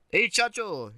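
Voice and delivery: high, mock-Mexican call; hammed-up Mexican greeting; Mexican accent. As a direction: put on a broad Mexican accent.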